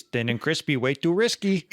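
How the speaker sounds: playful put-on Wisconsin accent; light mock Wisconsin, laughing at the end. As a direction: play a Wisconsin comic telling dad's sayings. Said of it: "I can do it too".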